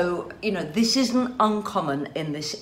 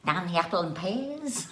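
half-hearted attempt at a London accent; mock London accent. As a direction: have a quick go at Cockney. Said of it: "Can you do a good London accent".

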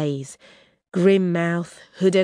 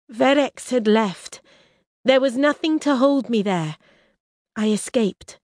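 defiant princess; 7 semitones higher, 3 dB louder than usual. Acted. Risha explains her escape.

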